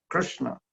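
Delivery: "Krishna" with clear r and sh; Sanskrit pronunciation. Shown as a demonstration. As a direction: sound "Krishna" carefully in Sanskrit. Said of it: "the Sanskrit is".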